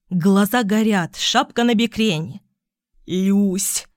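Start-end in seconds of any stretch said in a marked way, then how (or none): 3.1-3.9 panting, whispered Люсь; breathless whisper. A narrator's reading. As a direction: gasp out Люсь after stairs. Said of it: "прошептал он, задыхаясь".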